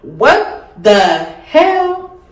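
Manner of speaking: drawn-out, slow what the hell; stunned disbelief. Retold or imitated. Viewer hearing the proposal speech, slow stunned disbelief. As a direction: let the words hang in disbelief. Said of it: "you would be like".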